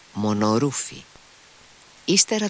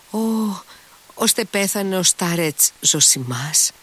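a higher, startled outcry; exclaiming; 10 semitones higher than usual. A narrator's reading. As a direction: cry it out in shock at the news. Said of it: "αναφώνησε η γκρούσεκνα". (αναφώνηση έκπληξης, πιο ψηλά)

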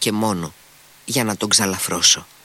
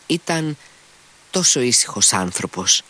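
ordinary delivery, nothing marked

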